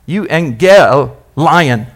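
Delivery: Euangel then Lion, stress on gel; split into parts. Shown as a demonstration. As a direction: break the word at gel and lion. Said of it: "Put the emphasis on the gel".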